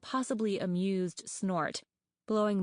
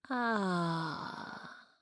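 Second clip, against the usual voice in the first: eerie rasp; 3 dB quieter than usual. A narrator's reading. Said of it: "creaky and quiet and rough and eerie".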